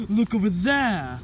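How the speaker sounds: insistent exclamation, falling at the end; urgent pointing out. Acted. Yokai tells doubter to look, urgent pointing out. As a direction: direct them firmly to look.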